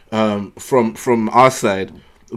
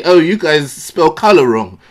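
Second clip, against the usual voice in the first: hammed-up snooty nitpicker, slow and higher; uppity snob; 4 semitones higher, 4 dB louder, slower than usual. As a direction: draw it out like a condescending pedant. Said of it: "uppity Negro come up and, and say".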